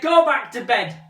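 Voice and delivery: loud firm order; shouting. Acted. Son shouting at mother to go back to bed.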